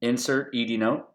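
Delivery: crisp command spoken to software; dictation command. Shown as a demonstration. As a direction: give the voice command clearly. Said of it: "I'm gonna tell Dragon to insert".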